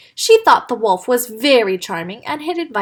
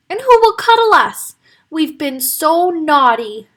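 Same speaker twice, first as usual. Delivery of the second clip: sobbing; 6 semitones higher, 5 dB louder than usual. Acted. Piglet sobbing over her gobbled mummy, tearful. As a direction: cry out with remorse. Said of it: "sobbed Nettie".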